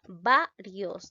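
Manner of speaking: "Varios" split up, with weight on VA; stress on VA. Shown as a demonstration. Teacher asking pupils to analyse it, stressing VA in "Varios". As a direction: punch the first syllable of "Varios". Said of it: "En la sílaba va".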